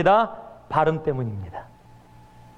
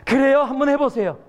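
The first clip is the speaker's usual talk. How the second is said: missionary prompting; 5 semitones higher than usual. Retold or imitated. Missionary answers villagers.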